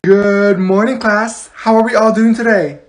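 loud, chipper classroom greeting; cheery teacher. Acted. Teacher greeting a sleepy Friday class, loud and chipper. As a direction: greet the class with big morning pep. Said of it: "Why is she acting like that?".

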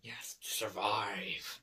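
slow, low and menacing. Real, not acted. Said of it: "Why did I say it menacing like that?".

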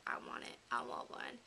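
breathy little whisper of longing; hushed, covetous whisper; whispered want. Retold or imitated. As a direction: whisper it like a secret wish. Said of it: "I was like".

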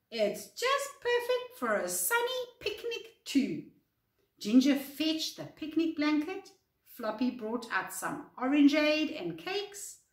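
lively, clearly paced read-aloud; expressive bedtime story narration; children's story reading. A narrator's reading. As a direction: read a picture book to young children. Reads a picture book to children.

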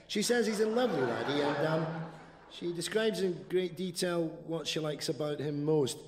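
bright upbeat radio presenter read; chirpy hospital radio host; cheerful care-home radio announcer. Acted. Radio DJ link.

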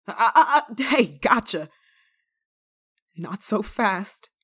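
snatch its wrist and laugh; playful catch. Acted. Grabbing the escaping demon.

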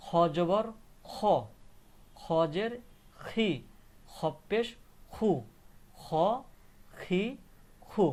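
loud, separate খ, খি, খু; spelling-out drill. Shown as a demonstration. Teacher showing kha with three marks, spelling-out drill. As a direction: project each mark, then খ, খি, খু alone. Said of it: "কেমন উচ্চারণ হবে".

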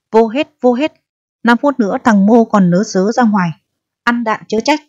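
high barked orders to prisoners; shouting guard. Acted. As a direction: yell them inside, threatening.

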